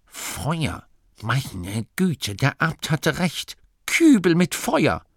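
aufgeregt. Acted. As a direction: rise from awe to excited exclamation. Figur entdeckt die Feuerkübel. (staunend, immer aufgeregter)

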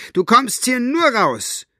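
high, defiant stand; determined. A narrator's reading. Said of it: "Mit entschlossener Miene".

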